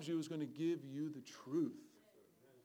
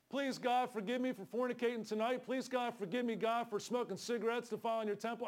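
mock confession prayer; 5 semitones higher than usual. Shown as a demonstration. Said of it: "I'm speaking as him".

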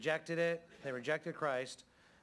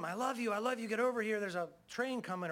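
a hammed-up frantic yell; mock scream; 6 semitones higher than usual. Shown as a demonstration. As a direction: yell it like a warning to the dog. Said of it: "But I can scream".

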